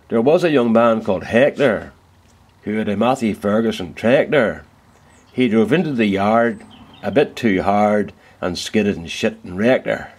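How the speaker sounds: a Ballymena farmer's limerick, hammed up; Ballymena accent. Woodturner recites a limerick to viewers in a Ballymena accent. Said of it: "you do this with a Ballymena accent".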